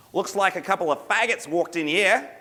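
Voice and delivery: high, hammed-up Aussie heckle; ridiculous Australian accent. Bar local heckles two newcomers, ridiculous Australian accent. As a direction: call it out in a broad Australian accent. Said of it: "ridiculous Australian accent".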